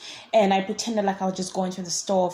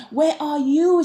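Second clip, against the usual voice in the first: high, louder mock call; imitated calling voice; 7 semitones higher, 5 dB louder, slower than usual. Imitating her voice searching for me, high mock call. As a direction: call out high, stretching the last word. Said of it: "she's like".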